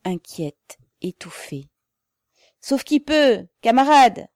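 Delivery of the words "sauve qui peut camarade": high, loud shout of alarm; alarmed cry. A narrator's reading. Crowd warns comrades to flee, alarmed shout. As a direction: shout a warning to fleeing comrades. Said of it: "Des voix criaient, inquiètes, étouffées".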